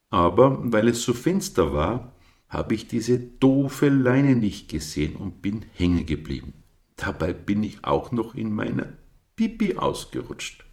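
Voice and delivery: Captain blurting out his mishap, voiced up; embarrassed Captain. A narrator's reading. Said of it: "sein Missgeschick anvertraute".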